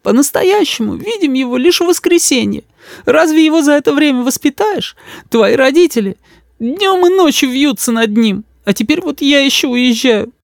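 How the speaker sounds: мама сквозь слёзы, высоко; плачущая мама жалуется, медленно; всхлипывая. A narrator's reading. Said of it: "всхлипывала мама". (всхлипывая, высоким голосом)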